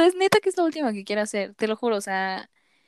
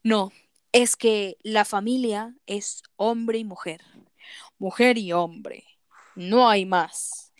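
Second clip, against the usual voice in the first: slow, lowered voice mocking a conservative radio ad; mock political ad; 3 semitones lower than usual. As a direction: ham up a preachy campaign spot, slow and heavy. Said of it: "escuché un comercial". (imitando con burla un anuncio político, lento y grave)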